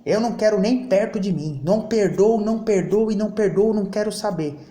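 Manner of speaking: a hint of someone refusing to forgive, insisting on "não perdoo"; mock angry refusal, not overdone; mock grudging refusal. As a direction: act out a stubborn grudge, lightly. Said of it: "você fala assim".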